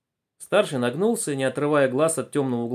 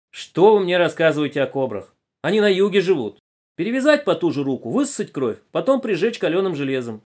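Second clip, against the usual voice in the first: opinionated passenger; 4 semitones higher, 5 dB louder than usual. Acted. Passengers argue about snakebites.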